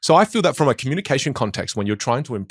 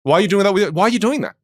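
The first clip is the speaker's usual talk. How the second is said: puzzled family; 6 semitones higher, 4 dB louder than usual. Pretend. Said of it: "They go".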